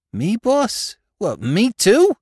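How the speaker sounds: very high New York dialect questions; aghast sidekick, pitch leaping up; astonished. A narrator's reading. Spike asked to live honestly, astonished.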